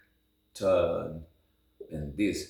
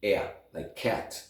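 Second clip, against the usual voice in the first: American A. Shown as a demonstration. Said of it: "In American".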